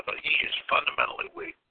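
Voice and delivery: a hushed, breathy verdict; whispered aside. Real, not acted. Host whispering a grim verdict on Trump, hushed. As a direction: lean in and whisper it.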